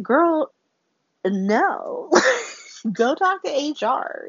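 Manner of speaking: put-on high, sharp "Girl", dropping to "no"; flat refusal. Britt refuses to let Liz work, high and sharp. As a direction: shut her down hard. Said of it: "Britt's like".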